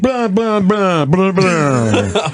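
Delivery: mock mid-Atlantic prep-school patter; mid-Atlantic accent. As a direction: parody a waspy mid-Atlantic accent on nonsense syllables. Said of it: "the mid-Atlantic accent".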